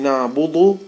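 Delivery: نعبد with a heavy dal; heavy dal mistake. Shown as a demonstration. Teacher naming the dal sound to avoid. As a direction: say نعبد wrong, dal thickened. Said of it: "you're not saying".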